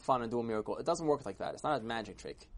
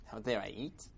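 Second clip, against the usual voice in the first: softer, puzzled echo; unbothered reply; 3 semitones lower, 7 dB quieter than usual. Acted. Old man answers angry crowd, soft and unbothered. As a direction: toss the question back quietly.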